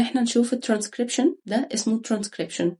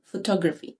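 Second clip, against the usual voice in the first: photography with the stress on "to", pho-TO-gra-phy; stress on second syllable; slower than usual. Shown as a demonstration. Teacher models it for the class, stress on "to". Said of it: "الشد على السكند سيلبل، على المقطع التاني".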